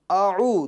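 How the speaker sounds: اعو as a light a, then throaty ayn with u; distinct hamza and ayn. Shown as a demonstration. Teacher reminding pupils of the difference, clean hamza then ayn in اعو. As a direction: keep the two sounds of اعو clearly apart. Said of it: "دونوں کی آواز میں فرق پیدا کرنا".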